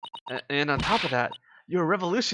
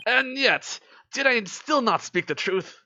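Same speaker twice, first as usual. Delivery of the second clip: second "and yet" pushed higher, slow after; insistent; 7 semitones higher, slower than usual. Acted. Detective insisting to the accused he spoke the truth. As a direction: press the point, rising on "and yet".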